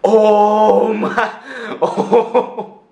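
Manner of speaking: loud, high startled cries; startled exclamations. Real, not acted. Vlogger startled as the bottle bursts open, loud and high.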